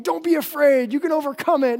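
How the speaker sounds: pep talk. Retold or imitated. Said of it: "like, a motivational pep talk of".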